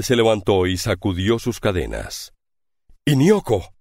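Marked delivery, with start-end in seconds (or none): 3.0-3.7 joyful exclamation. A narrator's reading. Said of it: "exclamó Sandokan".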